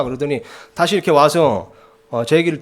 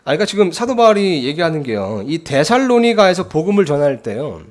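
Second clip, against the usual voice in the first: raised, emphatic sermon delivery; preaching; 3 semitones higher, 4 dB louder than usual. Acted. Pastor preaching to his church, loud and emphatic. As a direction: preach it out to the pews with force. Preacher expounds scripture to congregation.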